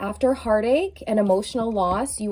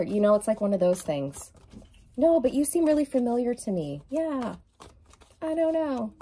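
acted dialogue; 2 semitones higher than usual. Acting out a meeting with soulmate.

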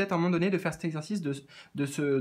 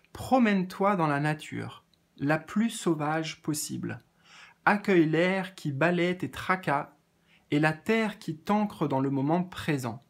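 calm card message read to the viewer; oracle card reading; slower than usual. Acted. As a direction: lead them gently into nature.

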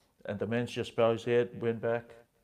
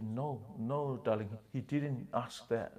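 soothing wife; 7 dB quieter than usual. Retold or imitated. Wife soothing her angry husband.

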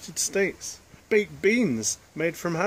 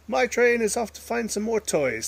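put-on excited child; 9 semitones higher, 5 dB louder than usual. George playing excitedly.

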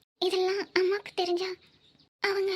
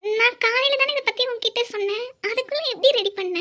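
louder, thrilled, can't believe it; excited disbelief; 3 semitones higher, 6 dB louder than usual. Acted. Girlfriend amazed her boyfriend arranged the engagement, excited. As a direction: gush at him, overwhelmed with joy.

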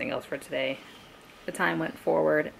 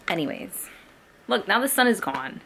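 ordinary talk

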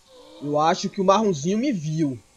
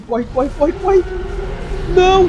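frantic yelling, much higher and louder; panic; 10 semitones higher, 6 dB louder than usual. Real, not acted. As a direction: scream for your life to run. Fleeing predators, screaming. (gritos desesperados, agudos e fortes)

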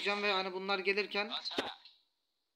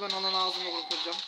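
normal talking voice

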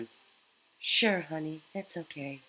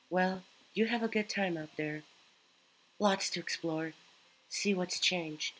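lightly voiced caring mother, higher; gentle motherly tone, pitched up; mom voice; 4 semitones higher than usual. Streamer voices Mom character.

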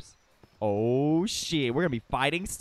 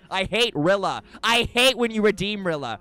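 angry rant; 4 semitones higher, 5 dB louder than usual. Real, not acted. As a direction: build to a high, loud declaration of anger. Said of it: "and I'm angry".

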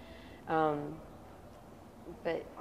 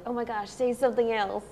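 higher, louder mock excitement; imitating amused onlookers; 6 semitones higher, 5 dB louder than usual. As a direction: mimic people egging you on, tickled by the accent. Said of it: "they just thought it was so funny".

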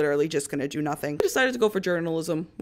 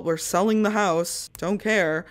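ordinary talk

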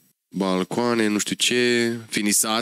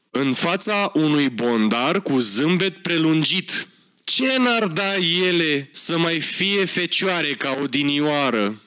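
mock ad read; slower than usual. Reading ad text dramatically.

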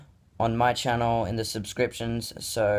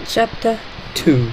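high mimic; 11 semitones higher, 8 dB louder, slower than usual. Echoing kid's title in high voice.

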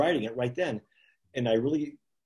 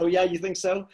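a higher, laughing sarcastic comeback; laughing irony; 6 semitones higher than usual. Retold or imitated. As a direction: laugh it off as if the praise were a joke. Ironic reply to praise, laughing.

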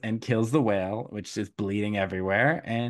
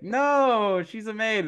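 much higher, prissy dismissal; mock snooty sisters; 11 semitones higher, slower than usual. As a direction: squeak out a fake denial. Sisters dismiss her as maid.

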